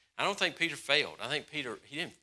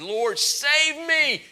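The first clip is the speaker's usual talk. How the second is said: desperate cry; 12 semitones higher, 6 dB louder, much slower than usual. Acted. Peter crying out while sinking.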